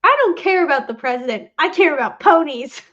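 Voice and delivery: a loud, emphatic hint of a bratty kid. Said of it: "another D W quote that I found".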